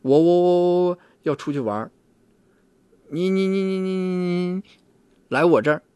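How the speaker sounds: put-on a child stuck on the first syllable; stuttering child. Therapist imitating a stuttering child for the host, stammering. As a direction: stammer hard on the first word, repeating it high and loud before getting through. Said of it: "他就存在着口吃".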